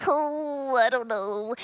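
very slow, drawn-out, worried, dithering nervous voice. Retelling how a cartoon's nervous turtle talks: nervous Filbert voice. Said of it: "he's just walking around talking about".

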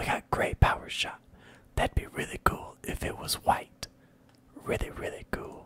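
hushed whisper. Streamer talking to viewers during a session: whispering. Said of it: "All we're doing is whispering".

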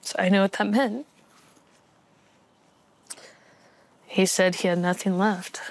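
voice quavering and trembling through each word. The speaker recounts what he told her, wavering voice. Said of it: "(VOICE WAVERING)".

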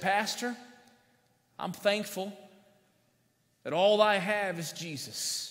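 put-on slow, frail, trembling voice of an elderly man. Speaker retells a frail old man's words to the pastor, imitating a quivering voice. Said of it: "in his quivering voice said".

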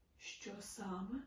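muttered very quietly. Narrator voicing a man answering a woman who wants to talk, muttered very quietly. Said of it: "промимрив він зовсім тихо".

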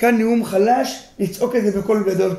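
ordinary delivery

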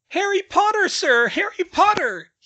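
very high, very loud squeal. A narrator reads Dobby hugging Harry Potter and greeting him, squealing. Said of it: "he squealed".

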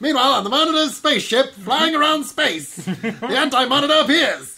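very high 1940s radio announcer voice. Asked whether the narrator could talk like a 40s radio announcer, try it: 1940s radio announcer voice. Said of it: "could the narrator talk like a 40s radio announcer".

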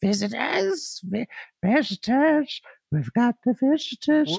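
put-on very high, ugly, cackling old hag voice. Game master voicing the old lady coming down the steps to visitors, old hag voice. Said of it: "And as you look into the barrel, you hear the shifting of the steps, and coming down the steps comes the old, ugly old lady. She's wrapped in a shawl as she shuffles down the steps. ... and up above you hear shrieks and cackles that cause the old mill to shudder. ... like crazy bulges out as she beg".

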